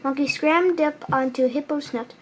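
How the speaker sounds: ordinary delivery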